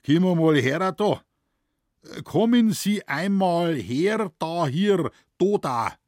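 slow, loud, high stilted German; laboured High German. A narrator's reading. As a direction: force out careful High German slowly. Moosbichler trying slow High German. (langsames, gequältes Hochdeutsch)

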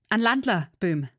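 loud and high, calling the band; shouting to band. A narrator's reading. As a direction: yell over the music for a dance. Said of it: "schrie sie dort". (laut den Musikanten zurufen)

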